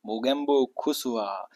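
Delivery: slow, lightly voiced villain line; a hint of the gloating Mogambo. Teacher quoting Mogambo for students, lightly voiced. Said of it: "Amrish Puri इसमें".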